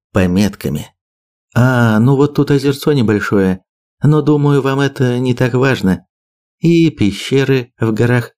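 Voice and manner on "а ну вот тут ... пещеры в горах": measured briefing, slightly raised voice; lightly voiced map briefer. Birger lists island sites for his allies, lightly voiced briefing. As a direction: lay out the sites item by item.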